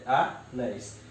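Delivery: "anéis" split into a, then néis; syllable by syllable. Shown as a demonstration. Teacher shows how it separates, "anéis" syllable by syllable. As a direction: break "anéis" after the first vowel. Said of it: "eu separo assim".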